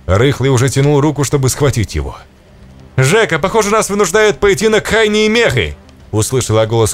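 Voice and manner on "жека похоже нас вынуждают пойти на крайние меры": Kurt's voice. Acted. Kurt's voice, shouted quote.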